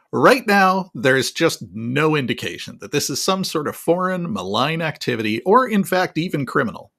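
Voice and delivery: lightly mocked condescending official; Kirby. Spokesman still denying foreign activity, mildly condescending. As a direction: talk down with leaned-on key words. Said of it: "condescending tone of voice ever".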